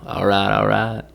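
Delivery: a casual, lightly done McConaughey catchphrase; lightly done Matthew McConaughey. Shown as a demonstration. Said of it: "Just get in there and do a little".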